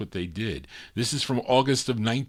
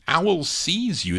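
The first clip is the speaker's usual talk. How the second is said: slow, swooping song title; drawn-out title; 5 semitones higher, slower than usual. Real, not acted. DJ back-announces the record, drawn-out title. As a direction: stretch out the title as a DJ would. DJ names the record just played.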